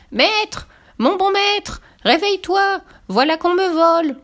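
very high-pitched, loud cry for help; harp crying out. A narrator's reading. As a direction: call out urgently as a tiny high-voiced harp in alarm. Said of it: "la harpe qui se mit à crier". (cri d'alarme très aigu de la harpe)

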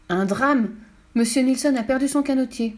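high-pitched tragic announcement; mock-dramatic. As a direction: announce a small disaster as a catastrophe. Fifi announces mock catastrophe. (drame exagéré, voix aiguë)

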